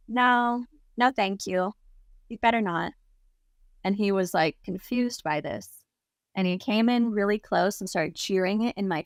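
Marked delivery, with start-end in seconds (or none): 0.1-2.9 understated, deadpan retold refusal; straight-faced refusal. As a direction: turn them down with a straight face. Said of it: "looked at him straight-faced".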